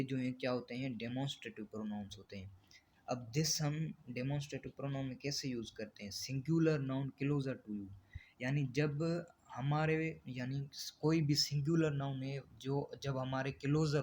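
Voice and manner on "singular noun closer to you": very slow, word-by-word reading of the definition; slow dictation. Shown as a demonstration. Teacher dictating a definition to the class, very slow and even. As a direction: spell the definition out slowly for students to copy.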